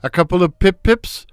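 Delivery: foghorn voice. Acted. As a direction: bellow it from the doorway like a foghorn. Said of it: "in his foghorn voice".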